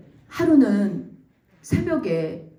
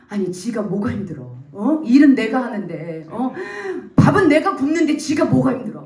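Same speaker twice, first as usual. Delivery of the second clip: indignant rant building louder; angry grumbling; 2 semitones higher, 4 dB louder than usual. Retold or imitated. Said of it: "막 화가 나는 거예요". (화나서 투덜대다 버럭)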